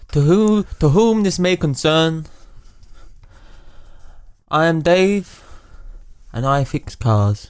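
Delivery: deliberate read-out in put-on Scottish; Scottish accent. Reading Dave's message aloud to a friend, put-on Scottish accent. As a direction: read the letter with a shaky grasp of Scottish. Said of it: "Otherwise, it doesn't sound Scottish".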